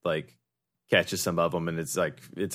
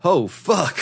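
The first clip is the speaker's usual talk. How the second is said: scared gasp; 10 semitones higher, 5 dB louder than usual. Retold or imitated. Penguin scared.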